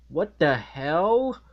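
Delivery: hushed, breathless what the hell; whispered quote. Retold or imitated. Reviewer quoting Mr. Krabs seeing SpongeBob, whispered. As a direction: whisper it in shock. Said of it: "Mister Krabs like".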